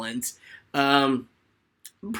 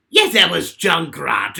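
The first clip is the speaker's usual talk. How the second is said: loud, shouted Aussie-ish Junkrat, first try; hammy Junkrat yell; Junkrat impression; 11 dB louder than usual. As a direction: bark it out like a manic demolition nut. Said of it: "Can you do your favorite Overwatch impression?".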